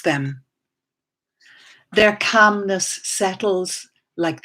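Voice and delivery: slow, deliberate recital with spaced-out lines; poetry reading. Acted. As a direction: give each image its own pause. Reads second poem aloud.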